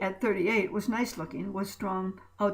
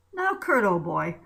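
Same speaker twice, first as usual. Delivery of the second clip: teasing; 5 dB louder than usual. Acted. Ray teasing Kurt.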